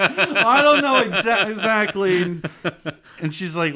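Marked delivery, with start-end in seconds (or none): 0.0-2.2 high, loud, stretched whine; mock flustered outburst. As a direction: blurt it out hammed-up and exasperated. Retold flustered outburst to policewoman.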